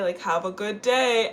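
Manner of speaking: slow, polite brush-off of have a good day; dismissive. Shown as a demonstration. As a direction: drag out a sweet but final goodbye. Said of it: "And I'm saying it like that".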